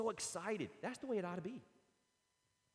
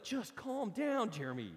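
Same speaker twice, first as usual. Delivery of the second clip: self-calming; 6 semitones higher, slower than usual. Retold or imitated. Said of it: "I'm like".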